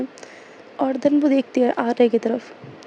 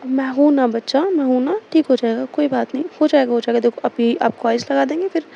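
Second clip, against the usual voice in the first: lovingly soothing. Retold or imitated. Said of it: "बड़े प्यार से समझा रही थी".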